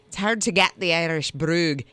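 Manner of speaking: tentative attempt at an Irish brogue. Shown as a demonstration. Host testing an Irish brogue on co-host, tentative Irish accent. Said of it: "Is it like that?".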